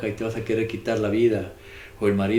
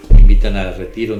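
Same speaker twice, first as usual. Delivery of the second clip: sudden much louder outburst; mock loud protest; 16 dB louder than usual. Preacher mimics a lazy believer, loud mock complaint. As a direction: blurt it out as a fed-up sleeper. Quoting a spiritually asleep person.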